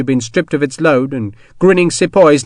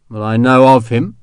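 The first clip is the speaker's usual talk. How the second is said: careful; 3 dB louder than usual. Acted. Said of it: "Sharp said carefully".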